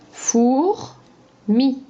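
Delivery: Fourmi drawn out as four - mi with rising end; slow syllables. Shown as a demonstration. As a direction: say Fourmi slowly, two clear beats. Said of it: "dis juste la deuxième syllabe".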